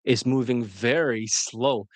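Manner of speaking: drawn-out, very slow imitation; imitating a slow, controlled talker; slow relaxed talk. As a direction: stretch each word out slowly, unhurried. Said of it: "He's, like, talking slower like this".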